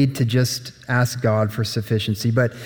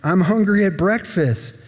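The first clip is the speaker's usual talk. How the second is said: groaning hungry king; 5 semitones higher than usual. Acted. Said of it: "he's like".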